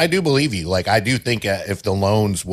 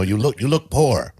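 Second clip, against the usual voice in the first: put-on terrible Anna accent; 4 semitones higher than usual. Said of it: "that was a terrible accent".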